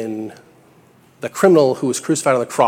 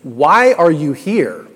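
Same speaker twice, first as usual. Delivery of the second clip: louder and slow, mock exasperated; mock angry demand; 3 semitones higher, 6 dB louder, slower than usual. Supervisor losing patience with the silent criminal, mock angry. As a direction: drag out the question in a hammed-up fit. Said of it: "in maybe a fit of anger".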